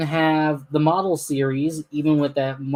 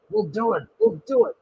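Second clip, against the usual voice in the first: puffing engine; 5 semitones higher than usual. Acted. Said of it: "puffed Henry".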